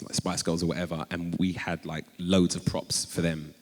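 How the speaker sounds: ordinary talk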